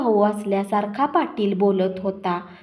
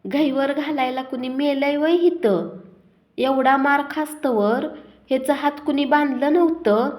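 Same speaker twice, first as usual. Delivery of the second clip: higher-pitched angry snap, rushing at the end; father snapping at his crying daughter-in-law, higher and fast; 5 semitones higher than usual. Acted. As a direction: bite at the daughter-in-law with contempt. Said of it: "बापू सुनेवर खेकसले".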